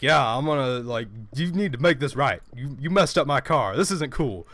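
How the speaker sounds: lightly put-on aggrieved caller; mock the caller's insistent complaint; imitated angry caller. Showing how the guy sounded on the phone, imitating his angry complaint. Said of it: "This is how the guy sounded".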